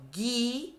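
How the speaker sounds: "Guitarra" with a hard /g/ and rising end; hard g demo. Shown as a demonstration. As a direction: model "Guitarra" for the class. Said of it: "Olha o som".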